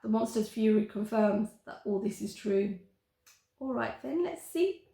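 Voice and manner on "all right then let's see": higher, gloating lilt; triumphant. Acted. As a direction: savour the victory. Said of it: "Charlotte says in triumph".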